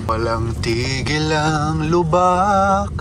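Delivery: slow, drawn-out words jolted by bumps; on a bumpy road. Real, not acted. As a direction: let the bumps shake the words.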